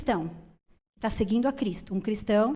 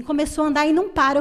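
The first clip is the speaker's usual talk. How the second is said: fast, louder mock complaint of a tired mom; hammed-up frazzled mom; exasperated mother; 5 semitones higher, 7 dB louder, faster than usual. Mother complaining about active child.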